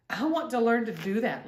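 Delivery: put-on a light girlish voice, keen; lightly voiced eager girl; eager young girl. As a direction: say it like a girl desperate to learn. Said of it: "Lainey said".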